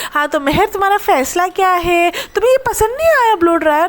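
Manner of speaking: playfully ape the vlogger's prompt; imitating the question. Vlogger mimics the host asking Mehar about the gift, mock eager.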